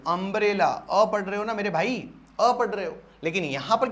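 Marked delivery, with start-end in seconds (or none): 0.1-0.9 अम्ब्रेला with a clear opening "uh"; pronunciation demo. Shown as a demonstration. Teacher shows students how U is read, अम्ब्रेला starting on "uh". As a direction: sound out अम्ब्रेला starting on "um", not "yoo". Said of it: "यहाँ यू को क्या पढ़ रहे हो?".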